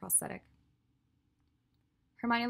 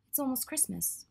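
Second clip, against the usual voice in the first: a touch higher, mildly grumpy; grumbling Hermione; 7 semitones higher than usual. Acted. Hermione grumbles to Draco about her interrupted nap.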